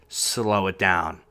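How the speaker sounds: slow, drawn-out retelling of her advice; slowed quote. Retold or imitated. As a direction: stretch each word to show slowing down. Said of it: "my wife had mentioned".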